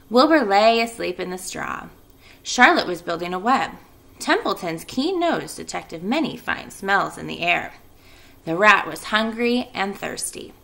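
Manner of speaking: lively read-aloud to the class; story narration. A narrator's reading. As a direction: read it like a teacher to kids. Teacher reads chapter aloud.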